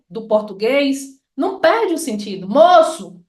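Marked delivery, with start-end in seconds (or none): 2.5-3.2 call without the Ô. Shown as a demonstration. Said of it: "Se eu tirar esse o".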